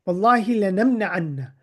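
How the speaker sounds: Wallahi lanamna'anna, the doubled n pressed hard; emphatic oath. Shown as a demonstration. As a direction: lean on the emphatic ending of lanamna'anna. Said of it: "the grammatical form here is, like, with emphasis".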